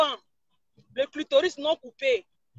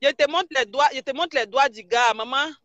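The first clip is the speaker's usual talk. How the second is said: louder, eager and insistent; excited loud showing off; 6 dB louder than usual. Real, not acted. Blogger showing fans the guy's fingers, excitedly louder. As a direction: call out louder, thrilled to show it off.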